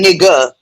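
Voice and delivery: "nigga" ending in an open -a, no R; "nigga" without the hard R; soft-ending pronunciation. Shown as a demonstration. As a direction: say "nigga" with an uh sound at the end. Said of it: "We, we say".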